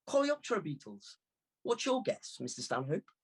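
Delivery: lightly voiced cheeky young girl; a hint of an impish girl; teasing girl. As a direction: tease him with the answer. Girl teasing in guessing game.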